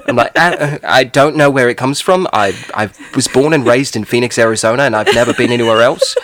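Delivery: conversational British accent, played casually; British accent sprung mid-conversation. Shown as a demonstration. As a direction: slip into a put-on British accent. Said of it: "I'll start talking in a British accent".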